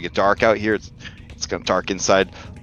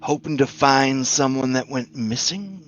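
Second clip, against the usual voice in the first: skeleton voice; 4 semitones higher than usual. Acted. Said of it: "the skeleton says".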